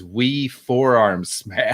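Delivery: slow, savoured Scottish "wee forearm smash"; Scottish accent. Retold or imitated. Reading a Scottish quote aloud to cohosts, in a slow Scottish accent. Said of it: "Only in Scotland do you hear the words".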